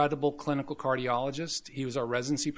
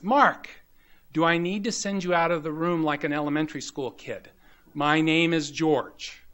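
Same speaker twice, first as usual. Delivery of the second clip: exasperated; 5 dB louder than usual. Retold or imitated. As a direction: scold him like a tired teacher.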